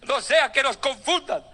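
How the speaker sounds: high, laughing mock fright; frightened devil. Preacher voicing the devil running from preachers, high and laughing. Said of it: "El diablo dice".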